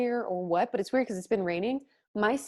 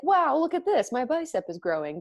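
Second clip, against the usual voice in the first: excited; 5 semitones higher than usual. Retold or imitated. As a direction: show off, thrilled with yourself. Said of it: "I could be like".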